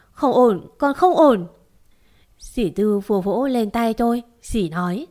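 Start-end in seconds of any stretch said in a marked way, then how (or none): 0.1-1.5 crying again. Acted. To aunt Tư, crying in relief. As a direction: sob it out in relief. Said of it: "lại khóc".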